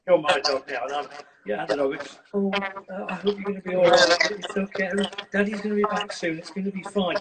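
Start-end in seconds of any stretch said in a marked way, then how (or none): 2.3-7.2 lightly voiced fretting owner, higher; anxious owner. Dog expert playing a nervous owner leaving, mildly fretful. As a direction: fuss over the dog as you leave. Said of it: "if you look really anxious".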